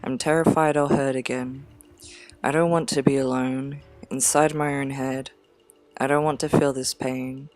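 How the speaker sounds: measured recital with long pauses between lines; poem reading. Acted. Poet reading own dark verse to listeners, poem reading. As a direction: read it as verse, pausing after each phrase.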